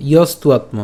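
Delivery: ইয়স্তুয়াত্ম joined in one go; said together. Shown as a demonstration. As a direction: say ইয়স্তুয়াত্ম without breaking it up. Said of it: "একসাথে".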